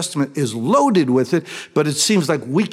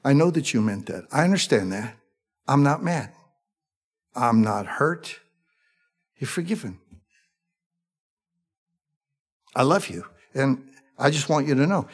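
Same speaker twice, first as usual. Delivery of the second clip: spoke kindly; 2 semitones higher than usual. Acted. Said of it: "He spoke kindly to them".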